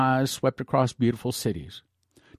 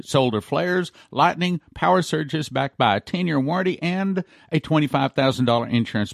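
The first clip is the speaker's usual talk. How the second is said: ad read. Acted. Preacher pitching EMP shield devices to listeners, upbeat ad read. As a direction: sell the product like a radio spot. Reads a sponsor ad.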